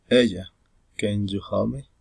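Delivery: "can you help me?" rising on "me"; rising intonation. Shown as a demonstration. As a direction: call "Ella", then lift "me". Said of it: "rising intonation".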